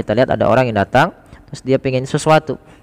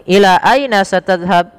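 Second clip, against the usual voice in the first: slow repeat for learners; 6 semitones higher, 3 dB louder than usual. Shown as a demonstration. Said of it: "kita ulangi".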